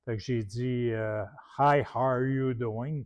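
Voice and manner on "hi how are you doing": put-on English greeting with a thick Quebec French accent; friendly Quebec-accented English hello. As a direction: greet him in English the way a francophone from Quebec would. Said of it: "avec mon accent".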